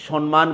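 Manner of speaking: সম্মান as "shon-maan", n before m; mispronounced সম্মান. Shown as a demonstration. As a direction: swap the first m of সম্মান for n. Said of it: "বলা যাবে না".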